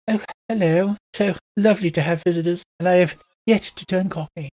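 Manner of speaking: hint of a grand matron greeting visitors; matronly heron. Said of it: "big matronly woman that sort of puffs".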